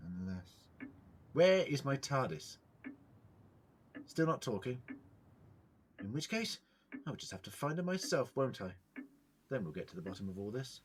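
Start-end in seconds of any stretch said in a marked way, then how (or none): 1.3-8.7 shouting at the walls. Acted. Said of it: "why are you shouting at the walls".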